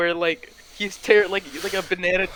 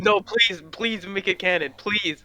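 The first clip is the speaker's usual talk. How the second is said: pleading; 3 semitones higher than usual. Real, not acted. Player begs game master for canon.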